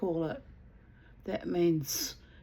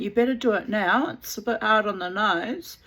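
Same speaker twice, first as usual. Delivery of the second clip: louder, bossy sergeant-major command; firm order; 3 semitones higher, 6 dB louder than usual. Retold or imitated. Telling the neighbour to change the nappies, a loud firm order. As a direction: lay down the law to her.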